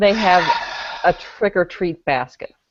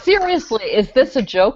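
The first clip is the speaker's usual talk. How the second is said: mock indignant read; 4 semitones higher than usual. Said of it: "I like how you strive for accuracy".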